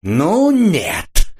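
high, loud, furious shout; в ярости вскрикнув; furious cry. A narrator's reading. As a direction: explode in rage, refusing flat out. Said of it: "вскричал поляк вне себя от ярости".

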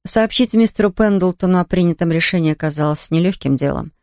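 usual speaking voice

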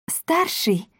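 high questioning "Старшей?"; checking. A narrator's reading. Sabrina corrects her father, high query. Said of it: "уточнила Сабрина".

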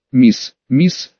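put-on policeman calling out in Irish accent. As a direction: warn her off with an Irish lilt. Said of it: "с явственным ирландским акцентом".

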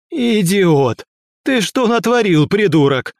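high, loud furious outburst; angry yell. Acted. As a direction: scream it at the fool. Teacher yells after explosion.

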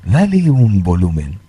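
underwater-sounding flanger voice; talking through a swirling effect. Real, not acted. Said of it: "como si fuese que está abajo del agua". (voz con efecto flanger)

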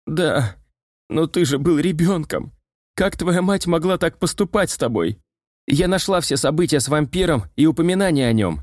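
put-on high excited girl voice; eager bright exclamation; радостный выкрик. A narrator's reading. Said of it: "радостно выкрикнула Май". (радостно, высоким девичьим голосом)

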